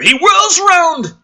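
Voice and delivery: high, slow, loud read; hammed-up action read; dramatic action line. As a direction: bark the action out big. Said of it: "reading action line".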